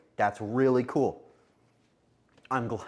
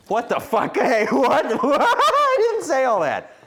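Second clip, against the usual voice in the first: high, loud words broken by laughter; laughing disbelief; 12 semitones higher, 9 dB louder, slower than usual. Real, not acted. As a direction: protest through laughter at chat. Laughs at chat's claim.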